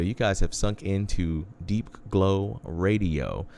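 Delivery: slow announcer read of the station name; radio announcer voice. Acted. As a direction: draw it out like a DJ tagline. Radio host tagline.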